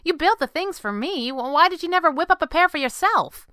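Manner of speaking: put-on very high, animated girl voice; girl sidekick. Girl asks why he never glides, high and insistent. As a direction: press him, pitched right up.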